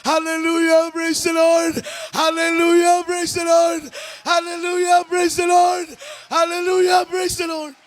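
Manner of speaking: mock-shout the mother's praise over and over; retold shouting. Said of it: "Siya po'y nagsisigaw ng".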